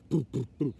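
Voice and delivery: low booms like a heart beating; spoken thump of a pulse; imitated heartbeat. Shown as a demonstration. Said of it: "making their hearts beat".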